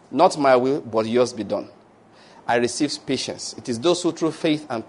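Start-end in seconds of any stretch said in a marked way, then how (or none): 0.1-1.7 surrendering prayer. Shown as a demonstration. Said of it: "Next day you come back".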